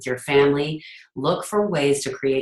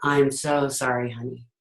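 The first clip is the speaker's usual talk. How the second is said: caring parent. Retold or imitated. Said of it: "my attitude to my son would be".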